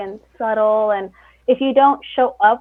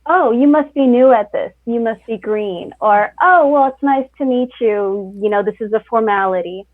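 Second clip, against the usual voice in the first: condescending; 3 dB louder than usual. Retold or imitated. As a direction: talk down to the new kid. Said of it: "I don't wanna be the".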